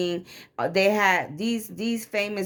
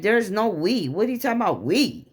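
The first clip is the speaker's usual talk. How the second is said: indignant retort; 3 semitones higher than usual. Retold or imitated. Wife rejecting husband's talk of getting back together, indignant. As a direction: push back in disbelief, pitch jumping up.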